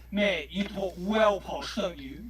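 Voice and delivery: slow, lazy London lad voice; hint of an Essex accent; mock London slang. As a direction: tease him like a local geezer. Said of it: "it's just like".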